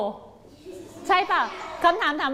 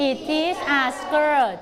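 put-on slow, clear reading for kids to repeat; slow model reading; much slower than usual. Shown as a demonstration. Teacher modelling a sentence for pupils, slow and clear. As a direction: read it slowly, word by word. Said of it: "ดังๆเลย".

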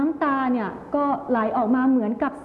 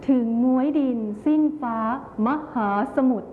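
measured verse reading with a touch of love; loving tone. Shown as a demonstration. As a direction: read the poem lovingly, pausing between phrases. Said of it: "บทที่มีน้ำเสียงความรักซ่อนอยู่". (น้ำเสียงแสดงความรัก)

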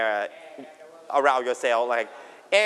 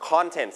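CONtent, weight on CON; stress on first syllable. Shown as a demonstration. Teacher restating today's meaning, stress on first syllable. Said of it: "stress ที่พยางค์แรกนะครับ".

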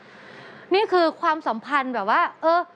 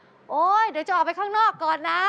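announcing for the thief; 2 semitones higher than usual. Retold or imitated. Employer baiting the thief with news she's going out, mock calling-out. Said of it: "อ๋อ ตะโกนเสียงดังด้วย".

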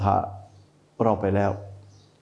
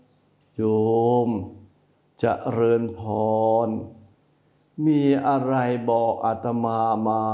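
slow, gentle monk's greeting, unhurried; slower than usual. Shown as a demonstration. Monk greets layperson gently. (พระทักทายโยมอย่างช้าๆ นุ่มนวล)

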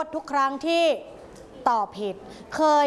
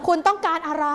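higher, snappy and rude; rude demand; 5 semitones higher than usual. Shown as a demonstration. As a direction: snap at the caller. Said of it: "ร้ายกาจมากเลย".

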